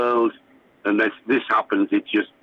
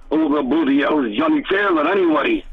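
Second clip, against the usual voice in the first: lightly imitated Liverpool accent, pitched higher; a singer; 4 semitones higher than usual. Bandmate retells the singer mocking the name on the drums, light Liverpool accent. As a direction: put on a touch of outspoken Liverpudlian. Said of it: "in his Liverpool accent".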